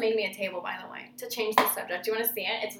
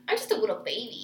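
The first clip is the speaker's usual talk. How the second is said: put-on whiny baby voice; 5 dB quieter, faster than usual. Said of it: "And then he's like".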